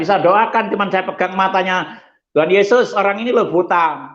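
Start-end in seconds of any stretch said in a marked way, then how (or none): 2.3-4.1 retold healing prayer. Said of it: "Saya ngomong gitu".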